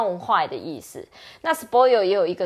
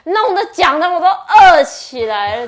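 laughing while talking; 8 semitones higher, 8 dB louder than usual. Real, not acted. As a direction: laugh through the words. Joking about getting hungry.

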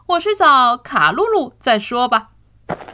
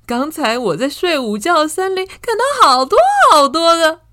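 louder, higher eager calling; 7 semitones higher, 7 dB louder than usual. Acted. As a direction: call out to a friend's door. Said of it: "乌鲁正大声说的时候".

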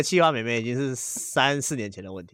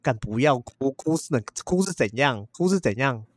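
mock snapping; 3 semitones higher, slower than usual. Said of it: "我就直接呛".

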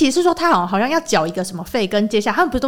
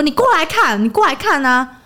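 retold shout; 5 semitones higher than usual. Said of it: "还整个大喊说".

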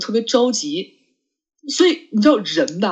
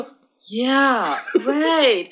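very slow drawn-out Yeah right, with a laugh; mock clueless reply; 4 semitones higher than usual. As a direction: stall as if you understood. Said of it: "然后我就". (拖长声音、带笑地假装听懂)

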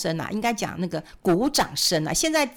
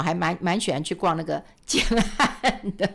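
laughing. Real, not acted. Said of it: "蛮喜欢去的哈".

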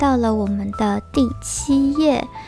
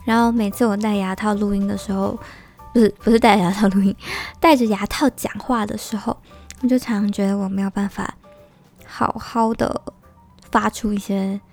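talking with a retainer in; slightly slurred speech through retainer; wearing retainer. Real, not acted. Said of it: "忘了拔牙套".

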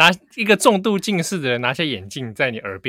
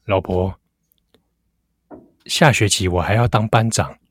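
handsome husband voice; 6 semitones lower than usual. Acted. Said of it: "帅的王伟".

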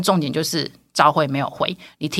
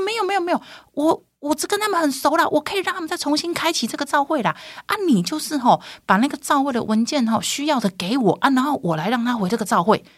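boastful chairman; 9 semitones higher than usual. Retold or imitated.

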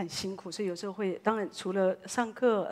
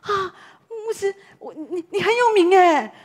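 high and loud, laughing, slowed at the end; excited gushing; 10 semitones higher, 10 dB louder than usual. Retold or imitated. Guide telling the pastor he is famous, excited and laughing. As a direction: gush with amused delight. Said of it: "然后他说".

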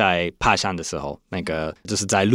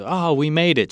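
happy relief; 6 semitones higher than usual. Pretend. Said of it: "happy way to say".

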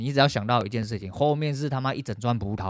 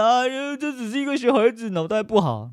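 high, sing-song mock excuse; sarcastic mock of the audience's excuses; mocking apologists; 11 semitones higher, 3 dB louder than usual. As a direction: parody people making excuses for a kid. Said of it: "你们说".

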